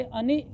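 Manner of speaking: अनि cut short with a jerk; short, jolted ending on अनि; glottal jerk. Shown as a demonstration. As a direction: stop अनि abruptly on a hamza catch. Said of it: "ये झटका आ गया है".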